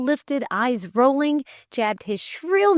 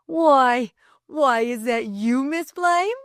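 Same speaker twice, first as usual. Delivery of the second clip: gasped; 5 semitones higher, 3 dB louder, slower than usual. Acted. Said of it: "he gasped".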